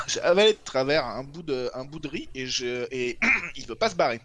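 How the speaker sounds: rice stuck in the throat; coughing through the words; choking. Real, not acted. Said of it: "je suis en train d'étouffer".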